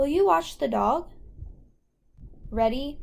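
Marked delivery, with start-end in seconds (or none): 0.0-1.1 rising, upward-questioning intonation, said louder. Reading a practice phrase aloud for the listener to repeat, with rising question intonation. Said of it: "you should hear that rising intonation in your voice".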